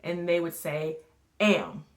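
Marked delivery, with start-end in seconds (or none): 1.4-1.8 "Am" said quickly as one blended word; said fast. Shown as a demonstration. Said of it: "Say it fast now".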